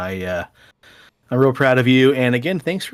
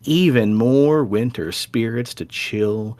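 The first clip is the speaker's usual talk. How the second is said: spooky storyteller intro. Acted. Spooky episode intro narration.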